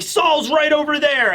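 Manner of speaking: high, drawn-out acted cry; high-pitched frantic call; urgent pointing call. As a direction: call out slowly in mock alarm. Giant points and calls out.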